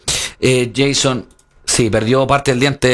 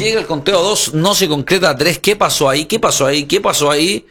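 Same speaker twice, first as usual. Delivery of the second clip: surprised; 5 semitones higher than usual. Real, not acted. Near fall shock.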